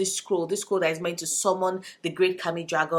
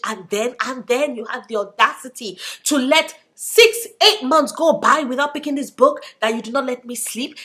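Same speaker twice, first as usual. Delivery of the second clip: sassy scolding cat rant. Retold or imitated. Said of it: "my cat is like".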